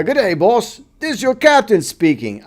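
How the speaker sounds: a terrible mock Australian captain; overdone Australian accent from a ship captain; bad Australian accent. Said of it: "terrible freaking Australian accent".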